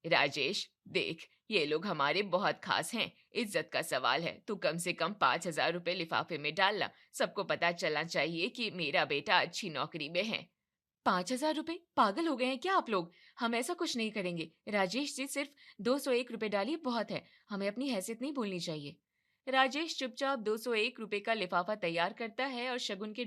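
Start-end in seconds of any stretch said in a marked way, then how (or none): 0.1-10.5 lightly voiced, lower; a hint of a status-proud mother; insistent mother. Mother urging son to give a big gift, insistent. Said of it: "कमला राजेश से कहती है". 11.1-19.0 shocked wife. Acted. Wife shocked at gift amount.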